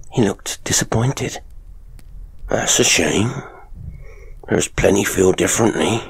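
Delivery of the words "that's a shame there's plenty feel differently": sly showman father. Acted. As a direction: lean in and taunt her. Father figure voiced.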